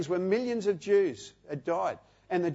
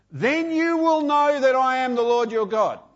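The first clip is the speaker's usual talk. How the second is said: raised, proclaiming voice; 4 semitones higher, 4 dB louder than usual. Acted. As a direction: declare it to the whole room. Quoting God's words, emphatic.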